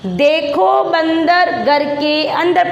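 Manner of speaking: slow, word-by-word reading; model reading aloud. Shown as a demonstration. Teacher leading pupils in reading from the book, slow and measured. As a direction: read it out slowly for children to repeat. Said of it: "पढ़ो देखें".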